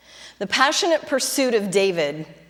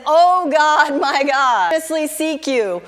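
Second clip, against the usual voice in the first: desperate plea; 4 semitones higher than usual. Retold or imitated. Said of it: "runs to God and says".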